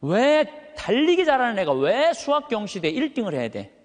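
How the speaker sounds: ordinary talk, nothing marked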